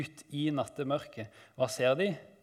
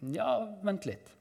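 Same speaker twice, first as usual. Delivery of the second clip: mildly acted higher-pitched "hold on"; God interrupting; 8 semitones higher than usual. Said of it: "Så kommer Gud og sier".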